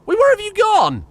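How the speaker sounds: very high, loud angry yell; shouting. Real, not acted. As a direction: scream at the runaway colonist. Yelling at fleeing colonist.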